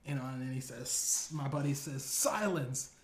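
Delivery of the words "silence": commanding shout. Retold or imitated. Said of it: "he interrupts him".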